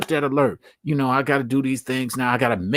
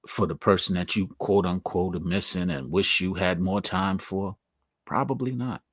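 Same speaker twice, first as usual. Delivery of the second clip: ordinary talk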